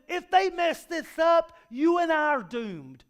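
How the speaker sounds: preacher stressing Mary and Joseph's pressure, loud and slow; dramatic build. Real, not acted. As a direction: lean hard into the stakes.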